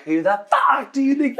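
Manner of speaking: very high mock-outraged comeback; exaggerated high-pitched ranting impression; Aoife. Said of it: "and then Aoife's like".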